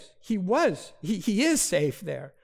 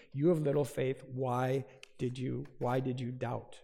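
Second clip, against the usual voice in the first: softer, lower, a tender reproach; gentle rebuke; 3 semitones lower, 5 dB quieter than usual. Retold or imitated. Jesus holds sinking Peter and gently rebukes him, softly. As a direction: soften it like a patient teacher.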